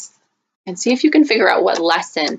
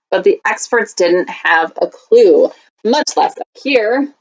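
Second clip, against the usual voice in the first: put-on lively read-aloud for kids; story reading. Teacher reading a picture book to students, storytime voice.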